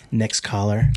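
lightly imitated radio host, low and slow; hint of a slow late-night show host; old call-in show host. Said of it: "where they used to talk like this".

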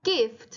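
"gift" with both the F and the T sounded at the end; both final consonants. Shown as a demonstration. Teacher telling students to sound F and T, "gift" ending crisply on both. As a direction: finish "gift" on an audible F, then a released T. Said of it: "ต้องออกเสียงทั้งตัว F แล้วก็ตัว T".

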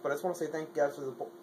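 fast, mumbled, tripping over words; rushing the words together; rushed and garbled. Real, not acted. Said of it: "I can't even speak".

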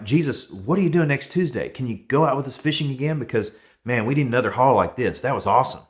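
an ecstatic fisherman asking Jesus to come fishing again; excited celebration. Retold or imitated. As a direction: gush like you just hauled a record catch. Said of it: "so ecstatic, so excited and celebrating".

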